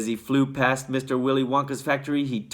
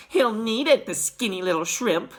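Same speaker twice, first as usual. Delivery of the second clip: laughing; 9 semitones higher than usual. A narrator's reading. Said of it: "a girl said, laughing".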